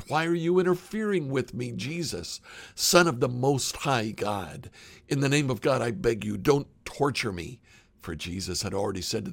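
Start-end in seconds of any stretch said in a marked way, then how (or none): 0.1-7.6 a raised, pleading cry, not a full scream; read-aloud scream. Acted. Possessed man begs Jesus not to torture him, mild raised cry. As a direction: voice the possessed man's plea with mild alarm. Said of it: "With a shriek, he screamed".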